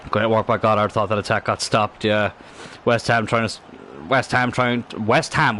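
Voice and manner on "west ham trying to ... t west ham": stumbling false starts on "West Ham trying"; halting, restarting after "West Ham"; tongue-tied. Real, not acted. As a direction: trip over "trying" and break off. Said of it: "Why can't I speak English?".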